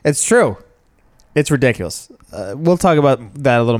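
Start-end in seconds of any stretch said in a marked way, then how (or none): 0.0-2.1 whiny. Pretend. Echoing mock whine.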